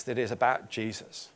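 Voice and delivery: ordinary talk, nothing marked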